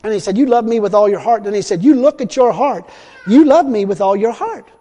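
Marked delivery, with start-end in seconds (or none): 0.4-1.4 retold voice of God. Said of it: "so the third time that voice speaks to me". 1.8-4.7 higher, louder pronouncement from God; retold voice of God. The voice speaks a third time to him, retold voice of God. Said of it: "so the third time that voice speaks to me".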